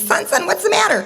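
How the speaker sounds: high, anxious fatherly questioning; concerned father. Retold or imitated. Father catching up with crying son, high-pitched concern. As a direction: ask like a dad rushing up to his child. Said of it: "his father catches up with him".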